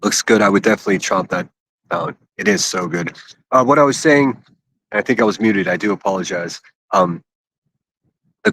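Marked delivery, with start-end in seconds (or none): 0.4-3.2 talking while chewing; mouth full. Real, not acted. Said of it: "Sorry for the chewing".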